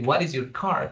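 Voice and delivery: "What is your car?" asked with a rising lift at the end; quoted as a rising question; questioning rise. Shown as a demonstration. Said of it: "we are not going to say".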